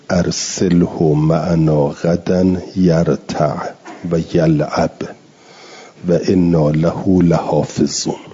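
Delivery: measured chanted recitation of the verse; Quran recitation. Shown as a demonstration. Teacher reciting the verse to his students, measured chant. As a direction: recite it in tajwid style.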